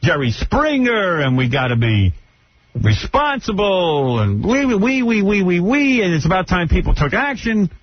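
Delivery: a hint of a sanctimonious talk host; imitating Rosie. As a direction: parody her preachy stammering monologue. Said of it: "This monologue she's doing".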